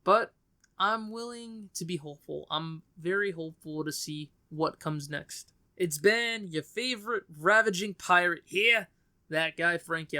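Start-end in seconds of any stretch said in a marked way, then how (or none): 5.8-10.2 breezy put-on Australian host accent; a hint of a New Zealand accent signing off. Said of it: "I don't know why I did an Australian or New Zealand accent".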